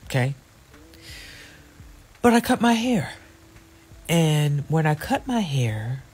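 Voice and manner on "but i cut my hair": emphatic. Real, not acted. Emphatic reveal of haircut.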